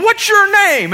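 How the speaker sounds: high, loud angry demand; imitated yelling. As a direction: act out an irate customer yelling at the manager. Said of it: "after he has yelled at her".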